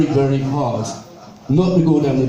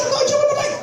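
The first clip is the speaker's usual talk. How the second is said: much higher, plummy posh lady voice; second try at the bank clerk line, fully in character; full posh lady; much faster than usual. Retold or imitated. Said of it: "I told her".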